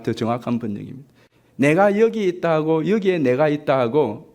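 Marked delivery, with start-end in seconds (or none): 2.9-4.3 여기에 said first and pressed; stress on 여기에. Shown as a demonstration. Preacher to congregation, stressing 여기에. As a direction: lead with 여기에, leaning on it. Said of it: "강조가".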